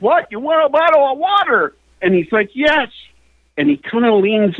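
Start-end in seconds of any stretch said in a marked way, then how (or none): 0.0-1.7 high, quick, strained retold question; high-pitched, fast mock yell; clearer repeat. Repeats garbled question more clearly. 2.5-2.9 tag. Retold or imitated. Acted reply in shouted exchange.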